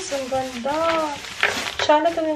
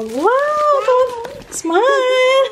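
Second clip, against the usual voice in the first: higher, louder encouraging call; excited cheer; 10 semitones higher, 4 dB louder, much slower than usual. Real, not acted. Child tries the camera. (masiglang "ngiti" sa bata)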